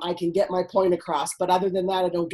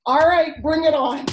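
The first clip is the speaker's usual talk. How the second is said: bright, raised, laughing bravado; mock bravado; 5 semitones higher, 3 dB louder than usual. Telling the coach how she now welcomes trouble, laughing. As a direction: toss it off like a dare. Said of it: "Now it's like".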